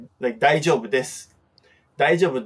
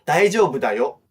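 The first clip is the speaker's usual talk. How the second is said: reassuring okay; faster than usual. Shown as a demonstration. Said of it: "hand gesture".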